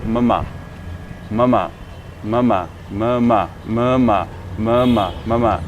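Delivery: ममा said "muh-maa", second vowel long; repeated model takes of ममा with a long ending; long aa sound. Shown as a demonstration. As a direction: lengthen the final "aa" of ममा. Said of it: "तो ये है long आ की sound".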